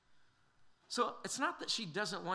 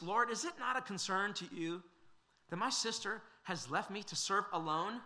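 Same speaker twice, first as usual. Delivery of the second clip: accusatory demand; 3 semitones higher than usual. Retold or imitated. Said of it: "a bit accusatory".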